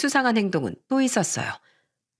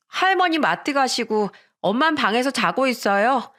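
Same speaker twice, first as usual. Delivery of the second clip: put-on higher, slowed child voice greeting dad; little boy voice; 5 semitones higher than usual. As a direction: play the small son running to dad. Son answers father.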